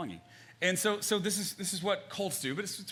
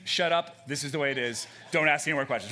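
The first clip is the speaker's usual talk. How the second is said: louder, blunt mock shut-down; 5 dB louder than usual. What the cliche really means, blunt. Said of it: "That just means".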